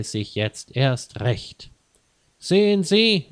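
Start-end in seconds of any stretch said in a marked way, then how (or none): 2.4-3.3 higher, louder yell; shouting as loud as he can. A narrator's reading. Johann yelling at the customs officer, a loud high yell. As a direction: burst out at full volume. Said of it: "schrie er so laut er konnte".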